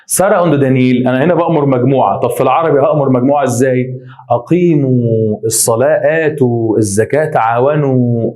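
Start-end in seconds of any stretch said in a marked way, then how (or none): 4.3-8.3 slow, with the final "وا" of "تعاونوا" held long; drawn-out plural endings. Shown as a demonstration. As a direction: stretch the "وا" endings in "أقيموا" and "تعاونوا" to show the waw. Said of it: "في واو".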